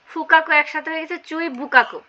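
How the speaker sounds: ফুকাকু said as বুকাকু after চুই, with a b; sound change shown. Shown as a demonstration. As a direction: join চুই বুকাকু as one word, ফু turns to বু. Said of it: "ফুটা হচ্ছে বু হয়ে গেছে". (চুই বুকাকু একসাথে, ফু এর বদলে বু)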